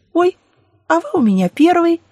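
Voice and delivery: high, loud flirty blonde gush; ditzy blonde voice. Acted. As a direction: play the coy ditzy blonde. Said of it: "фразу, столь типичную для блондинки".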